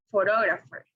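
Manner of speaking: pho-TOG-rapher, second syllable strongest; second-syllable stress. Shown as a demonstration. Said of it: "word stress is located in the second".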